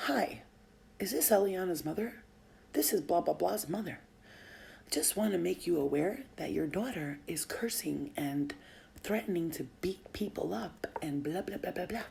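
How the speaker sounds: lightly imitated prim complaint, measured delivery; Karen voice. Friend's mom texting about the daughter, mock Karen. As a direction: mimic an officious mom's formal complaint. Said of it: "you know how white bitches Karens talk".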